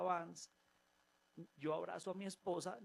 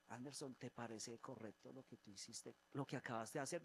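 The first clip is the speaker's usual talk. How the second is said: low, soft voice of God gently confronting; the Lord quietly correcting Anderson; 3 semitones lower, 6 dB quieter than usual. Retold or imitated. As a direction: speak as the Lord, quiet and searching. The Lord speaks to him.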